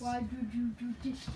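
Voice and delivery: whiny mock sob; fake-cry the complaint. Mock crying complaint to brother.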